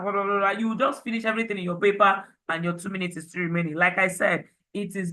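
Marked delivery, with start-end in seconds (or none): 0.0-0.5 rattled-off filler syllables; quick run of nonsense chatter; mock fast talking. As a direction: imitate someone gabbling through a speech. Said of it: "You'll not be talking fast".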